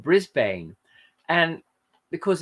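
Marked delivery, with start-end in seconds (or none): 0.0-0.8 "Brisbane" with a full "bane" ending, like the word bane; "Brisbane" said bris-BANE, rhyming with rain; American reading. Shown as a demonstration. Showing how Americans visiting Australia misread it, bris-BANE. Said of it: "a lot of Americans who come to Australia will call it".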